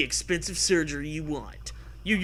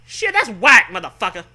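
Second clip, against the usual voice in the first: high, loud exclamation; mock outrage; 4 semitones higher, 9 dB louder than usual. Real, not acted. Reacting to the story, high and loud in mock shock. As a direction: blurt it out in shock.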